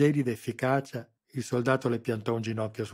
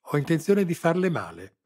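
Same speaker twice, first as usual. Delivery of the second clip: much higher and louder, gloating; menacing threat; 8 semitones higher, 10 dB louder than usual. A narrator's reading. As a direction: savour the threat. Colonel threatens the prisoner.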